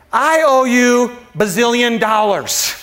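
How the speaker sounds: slow, drawn-out debtor's plea, lightly acted; pleading debtor. Servant to his master about a huge debt, mildly pleading. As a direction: lightly voice a servant owing a fortune.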